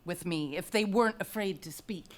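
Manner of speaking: soft, dropped to a whisper; whispered accusation; whispered aside. Acted. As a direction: let the crowd barely hear it. Whispered aside about afraid men.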